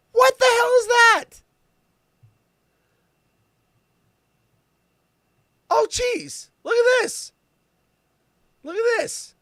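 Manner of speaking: very high, loud outraged voice; high, loud who's gonna wear that; appalled squeal. Real, not acted. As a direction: shriek in disgust at the shoes. Appalled at the shoes.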